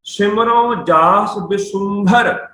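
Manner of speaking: slow, measured verse reading; scripture recitation. Shown as a demonstration. Teacher reciting Gurbani to students, slow recitation. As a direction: draw out each word of the verse.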